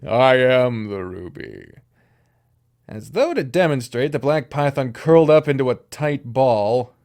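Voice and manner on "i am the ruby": slow, measured demon reveal; slower retake. Acted. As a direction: say it again with weight, slowly.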